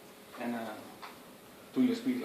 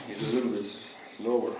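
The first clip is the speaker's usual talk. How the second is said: lover's voice; 4 semitones lower than usual. Shown as a demonstration. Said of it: "the lover's voice".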